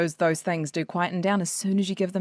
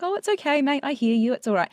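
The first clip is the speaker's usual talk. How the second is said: gentle soothing, a touch higher on okay; lovingly reassuring; 4 semitones higher than usual. Shown as a demonstration. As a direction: talk to it like a dear mate. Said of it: "You can just say lovingly".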